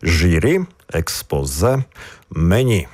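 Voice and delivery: "Журі" and "експозе" stressed on the last syllable; final syllable stress. Shown as a demonstration. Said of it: "також акцентуємо останній склад".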